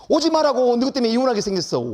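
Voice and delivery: high, loud retold scolding; acted angry outburst. Retold angry plea to unwanted students. (화나서 높고 크게 쏘아붙이는 흉내)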